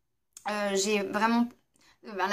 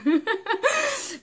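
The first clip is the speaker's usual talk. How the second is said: rire aigu et franc; éclat de rire; 13 semitones higher, 5 dB louder than usual. Real, not acted. Rit de sa propre blague. (éclat de rire spontané et aigu)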